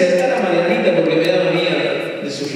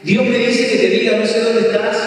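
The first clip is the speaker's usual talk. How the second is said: raised, ringing declaration of a word from God; prophetic proclamation; 6 semitones higher than usual. Retold or imitated. Preacher at a retreat calling out God's message to the crowd, raised and ringing.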